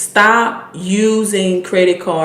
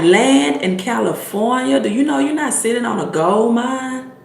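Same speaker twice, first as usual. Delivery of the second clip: high, mildly amazed retort; mock disbelief; 5 semitones higher than usual. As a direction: retell being incredulous at a friend's overlooked fortune. Retold astonished reply to Rick.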